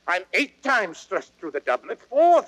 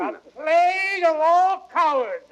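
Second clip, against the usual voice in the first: enraged outburst; 9 semitones higher than usual. Acted. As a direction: blast the cowards with fury. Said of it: "puffing and blowing with rage".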